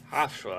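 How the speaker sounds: second try at Hofstra as "HOFF-stuh"; unsure pronunciation. Real, not acted. Host retrying a team name, Hofstra said as "HOFF-stuh". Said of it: "I don't know how to say it".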